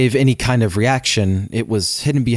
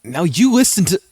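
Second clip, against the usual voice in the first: a raised growl; 8 semitones higher, 3 dB louder than usual. A narrator's reading. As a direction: growl the warning. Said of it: "I growled".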